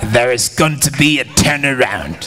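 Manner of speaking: mimicking careful British diction; imitated British accent. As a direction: copy a British accent, word by word. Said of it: "say with your British accent".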